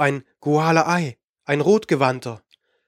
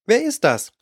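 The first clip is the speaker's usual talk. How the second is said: put-on a girl's quick, eager question, higher; excited question; 7 semitones higher than usual. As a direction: ask it breathless with excitement. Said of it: "fragte sie aufgeregt".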